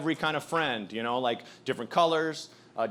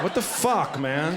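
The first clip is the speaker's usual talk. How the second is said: muttered self-pity. Retold or imitated. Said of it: "he said to himself was so good".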